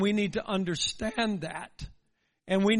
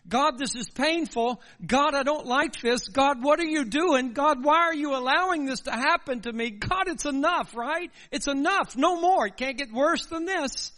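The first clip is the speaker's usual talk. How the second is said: desperate prayer; 3 semitones higher than usual. Retold or imitated. A suffering believer telling God it is enough, rising desperate plea. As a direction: press God harder with each line until it breaks.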